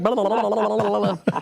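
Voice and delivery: rapid run-together blah-blah babble; mock medicated gibbering; babbling imitation. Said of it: "I'm like".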